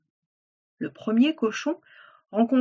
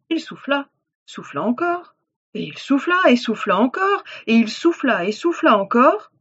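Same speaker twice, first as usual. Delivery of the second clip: rhythmic chant-like build, growing louder; building repetition; 2 semitones higher, 3 dB louder than usual. A narrator's reading. Narrator as wolf keeps blowing, rhythmic louder build. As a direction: build from moderate to loud on each "souffla".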